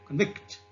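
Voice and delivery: "convict" stressed on VICT; weak first syllable, strong end on "convict"; verb stress. Shown as a demonstration. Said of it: "into a verb like".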